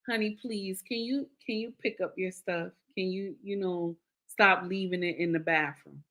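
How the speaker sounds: soft, gentle ask with no edge; calm request. Shown as a demonstration. Wife calmly asking husband to pick up clothes, soft and gentle. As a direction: ask sweetly, keep it calm. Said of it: "You're saying it calm".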